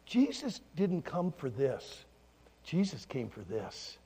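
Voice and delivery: slow, softening and dropping low; tender teaching. Retold or imitated. Pastor teaching children about Jesus, tender. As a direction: explain it slowly and gently.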